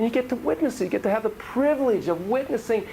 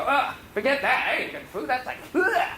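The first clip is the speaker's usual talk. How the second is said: higher, laughing ugh of distaste; mock disgust; 7 semitones higher than usual. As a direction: turn your nose up, half laughing. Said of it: "I'd go".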